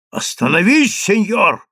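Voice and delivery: shouted protest. A narrator's reading. Chief rabbi halting Daniil, shouted protest. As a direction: call out to stop him sharply. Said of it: "закричал Даниилу главный раввин".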